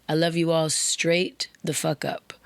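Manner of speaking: whispered emphatic aside. Real, not acted. Host reassuring all his listeners, whispered. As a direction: hush it but mean every word.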